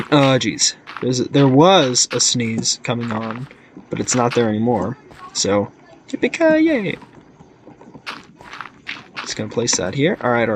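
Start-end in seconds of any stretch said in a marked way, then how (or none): 6.1-7.0 cowboy whoop. Acted. Cowboy cheer.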